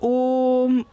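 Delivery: ओम with the ओ stretched out long; ओम held long; prolonged vowel. Shown as a demonstration. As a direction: stretch the ओ in ओम like a chant. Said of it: "ओ को दीर्घ स्वर के रूप में अधिक खींचते हैं".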